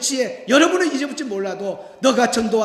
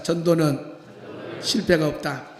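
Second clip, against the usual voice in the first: call to repeat; 7 semitones lower than usual. Shown as a demonstration. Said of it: "따라합시다".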